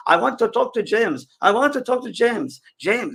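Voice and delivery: high, loud, insistent calling of James; spirit Frenchman. Retold or imitated. Retelling the seance, a spirit demands James, high and loud. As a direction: call for James like an eager spirit. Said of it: "It's a Frenchman. He goes".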